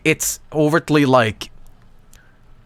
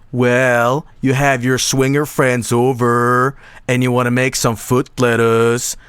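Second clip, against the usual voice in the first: infomercial voice; 2 semitones lower than usual. Shown as a demonstration. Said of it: "how I would pick".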